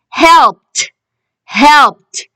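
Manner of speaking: "helped" ending in a released t; teacher's model "helped", final t set apart; final t sound. Shown as a demonstration. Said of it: "We can hear the t sound".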